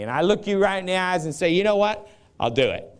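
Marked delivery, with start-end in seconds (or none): 1.5-2.9 muffled through a hand; hand over mouth. Shown as a demonstration. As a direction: speak through your fingers. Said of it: "I'm talking through my hand".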